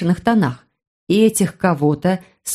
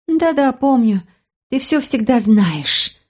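higher, slow exasperated voice; annoyed girl; 5 semitones higher, slower than usual. Acted. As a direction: sigh it out in irritation. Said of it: "досадливо прошипела она".

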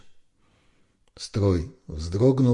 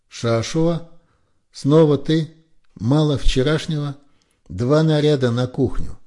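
higher, louder barked reprimand; the lieutenant berating Yaki for being unshaven, loud and angry; officer's angry yell; 8 semitones higher, 6 dB louder than usual. A narrator's reading. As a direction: tear into the soldier. Officer scolding the unshaven soldier.

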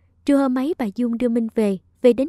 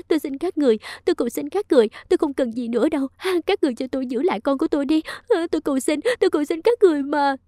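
higher, rushed pleading; desperate begging; 4 semitones higher, faster than usual. Acted. Minh begs everyone to let her keep the baby, high and hurried. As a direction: plead fast and frantically for mercy. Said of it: "van xin".

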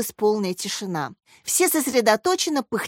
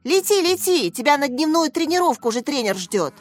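higher, insistent shooing; scolding; 6 semitones higher than usual. A narrator's reading. Boy telling the fly to leave for training, scolding. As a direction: send it off with urgent reproach.

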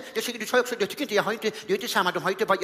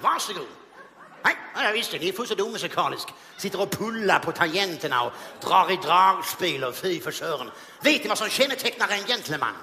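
Sten Broman voice. Retold or imitated. Comedian as Sten Broman mocking the orchestra, haughty. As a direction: look down on the band.

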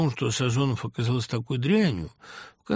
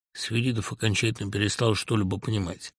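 ordinary delivery

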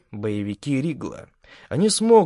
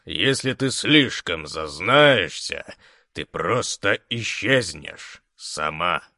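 menacing threat; 2 semitones higher than usual. Acted. Big man threatens the girl.

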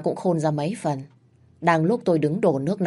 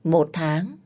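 raised tone. Acted. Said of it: "rồi lên giọng".

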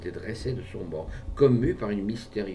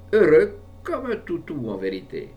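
gushing; 7 semitones higher, 7 dB louder than usual. A narrator's reading. Owner gushing about pet.

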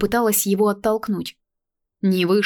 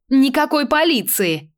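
high, slow, emphatic no; flat refusal; 8 semitones higher, 4 dB louder than usual. A narrator's reading. Stranger refuses the police, slow and high. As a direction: refuse outright, each word hit. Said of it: "наотрез отказалась она".

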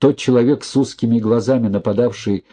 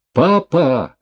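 high, loud cry of Papa; desperate cry; 7 semitones higher, 3 dB louder than usual. A narrator's reading. Daughter crying out to her falling father, desperate loud cry. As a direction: cry out in despair. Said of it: "отчаянно закричала Дашка".

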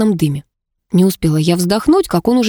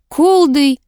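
disgusted grimace; 8 semitones higher, 3 dB louder than usual. A narrator's reading. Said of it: "скривился Крайтон".

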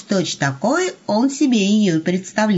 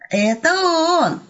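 excited hiss; 9 semitones higher, 3 dB louder, much slower than usual. A narrator's reading. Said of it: "восторженно прошипел Серый".

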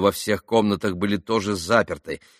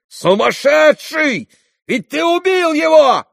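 high, very slow horrified shout; 9 dB louder, slower than usual. A narrator's reading. Ivan shouting at his brother, high and loud. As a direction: yell it at your brother. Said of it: "крикнул Иван".

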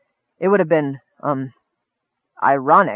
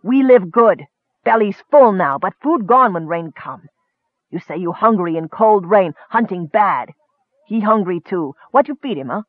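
goblin arguing; 3 semitones higher than usual. Acted. Goblin argues with the Kender.

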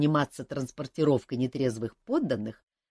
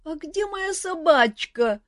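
put-on sleepy young man; 13 semitones higher, slower than usual. A narrator's reading. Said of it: "перебил её проснувшийся Мафей".

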